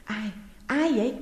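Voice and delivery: a shaky, frightened question; trembling voice. A narrator's reading. Frightened wife asking the figure at the window, voice trembling. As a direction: ask it trembling, afraid of the stranger. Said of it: "bằng một giọng run run".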